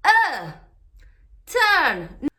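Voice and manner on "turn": "turn" with a long er vowel and silent R; "turn" rhyming with bird; correct British turn. Shown as a demonstration. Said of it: "No turn".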